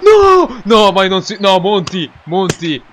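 loud outraged no; outraged shout. Real, not acted. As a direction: shout in disbelief. Opponent scores.

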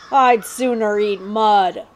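slow, disdainful refusal; sneering prince. Acted. The prince refuses the outlaws' food, slow and disdainful. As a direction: turn up your nose at it.

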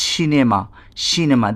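"সিনেমা" said as shinema, evenly and clearly; pronunciation demo. Shown as a demonstration. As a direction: model "সিনেমা" twice with a pause between. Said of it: "আমি বলছি সিনেমা". ("সিনেমা"-কে শিনেমা-র মতো উচ্চারণ)

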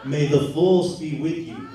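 solemn Jedi quote, laughing, with a loud final always; mock-solemn Jedi blessing, always belted out; Obi-Wan Kenobi. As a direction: imitate a wise Jedi master giving a blessing. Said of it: "words of the late, great Jedi Master Obi-Wan Kenobi".

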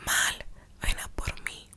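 slow, whispered mock tearfulness; imitated choked-up voice. Daughter phoning dad after failing the exam, imitated choked-up whisper. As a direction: whisper it haltingly, re-enacting being close to tears. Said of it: "yo con la voz entrecortada".

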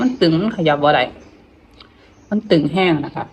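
talking through stiff, swollen lips; barely moving the tight lips. Real, not acted. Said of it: "มันตึง มันขยับบ่ได้".

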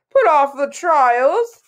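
high, loud, drawn-out disbelief; indignant interruption. A narrator's reading. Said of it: "the olive green dragon interrupted".

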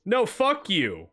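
mock angry shout; playful yelling. Real, not acted. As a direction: yell back at a friend. Mock quarrel with friend.

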